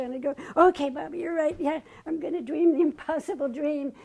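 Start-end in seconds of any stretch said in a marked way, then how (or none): 0.5-1.6 louder, higher, newly encouraged; rallying. Retold or imitated. Answering Baba through the song, fired up. 1.6-3.9 says the song line, louder and determined; spoken resolve. Retold or imitated. Answering the song, spoken with new resolve.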